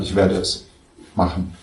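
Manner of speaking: firm, decided \"Ich werde es machen\"; firm resolve. Shown as a demonstration.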